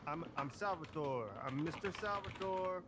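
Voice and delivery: put-on practised Italian mobster accent; Italian-American accent. Salvatore practises introducing himself, Italian-American accent. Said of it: "I need to work on my".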